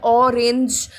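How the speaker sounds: "ऑरेंज" said alone, drawing out the opening vowel; O-sound demo. Shown as a demonstration. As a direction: show the o that starts "ऑरेंज". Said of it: "ओ की sound ही आ रही है". ("ऑरेंज" में शुरुआती ओ की ध्वनि दिखाते हुए)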